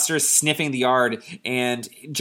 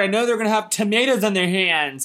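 high-pitched hammed-up desperate boy; pleading kid; 8 semitones higher, 3 dB louder than usual. Joe urges Dad to check the gnomes, frantic mock plea. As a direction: plead in a whiny raised voice.

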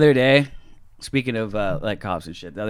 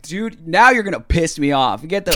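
acted-out rising annoyance; retold irritation; 6 semitones higher, 4 dB louder than usual. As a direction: spell out that patience is gone. Retelling his own angry reply.

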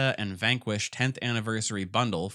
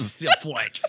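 laughing through the name, louder; 4 semitones higher, 6 dB louder than usual. Real, not acted. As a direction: giggle it out.

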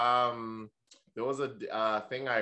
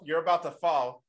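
normal talking voice

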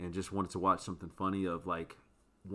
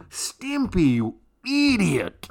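much higher, loud screeching rage, dragged out slowly; Ren's furious yell; 13 semitones higher, 14 dB louder, much slower than usual. Retold or imitated. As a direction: scream it like a chihuahua about to explode. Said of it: "then he'd be like".

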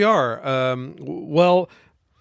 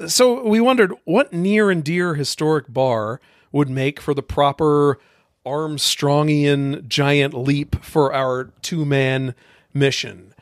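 eager audition; slower than usual. Acted. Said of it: "This is your worst reading of all time".

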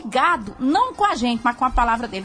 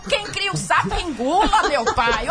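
laughing; 4 semitones higher than usual. Real, not acted. Laughing about swallowing frogs.

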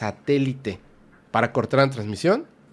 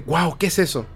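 impressed wow; 4 semitones higher than usual. Retold or imitated. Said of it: "Así impresionado".

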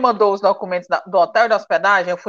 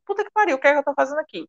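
high-pitched mock panic; retold despair; 4 semitones higher, faster than usual. Comedian retelling her anxiety before recording, mock despair. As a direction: replay a moment of panic, voice pitched up. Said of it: "me deu um desespero mesmo".

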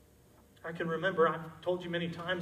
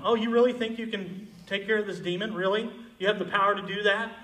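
mocking. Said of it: "begin to mock him".

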